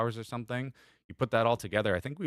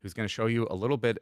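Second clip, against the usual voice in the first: movie trailer voice; 4 dB louder than usual. Pretend. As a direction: narrate it like a film trailer. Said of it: "I just had that trailer voice come up".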